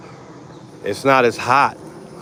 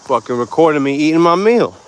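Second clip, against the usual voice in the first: lightly voiced squirrel griping, building louder and higher; mock-indignant squirrel; 4 semitones higher, 5 dB louder than usual. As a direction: play an annoyed squirrel, rising to a loud finish. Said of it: "He's like".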